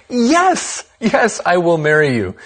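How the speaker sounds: a lightly acted, thrilled acceptance; emphatic yes. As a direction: answer a marriage proposal with a delighted yes. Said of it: "she responded with an emphatic".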